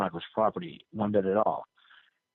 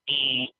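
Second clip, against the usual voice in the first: imitated intercom buzzer.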